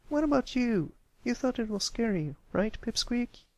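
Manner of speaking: high, pushy filly voice. Acted. Scootaloo pressing Pipsqueak to agree, pushy. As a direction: press him for praise.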